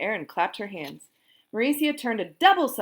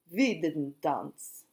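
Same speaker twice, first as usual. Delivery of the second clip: slow, a touch lower dazed reply; dazed boy; 4 semitones lower, much slower than usual. A narrator's reading. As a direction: say it still spinning. Dazed Ron answers.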